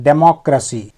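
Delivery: डेमोक्रेसी with the c said as s, "de-MOK-ruh-see". Shown as a demonstration. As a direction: say डेमोक्रेसी ending on a clear "see", not "kee". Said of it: "सी को स ही उच्चारित कर रहे हैं".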